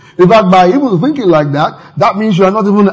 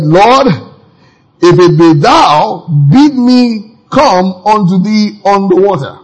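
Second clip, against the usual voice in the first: Peter pleading; 2 semitones higher, slower than usual. Retold or imitated. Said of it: "Peter answered and said".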